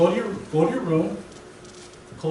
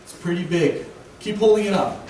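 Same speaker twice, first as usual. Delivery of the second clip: casual God voice; 2 semitones higher than usual. Retold or imitated. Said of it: "God will say".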